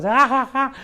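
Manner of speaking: high, mocking ha-ha-ha giggle; mock giggling. Preacher mimics partying girls to the congregation, giggling high. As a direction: cackle like the carefree girls at the party.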